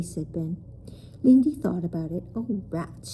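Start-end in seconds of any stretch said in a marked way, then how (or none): 2.3-3.1 a resigned sigh of a line. A narrator's reading. Lindy giving in to the bridge, resigned. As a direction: give in with a sigh. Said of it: "she said in a re-, resigned voice".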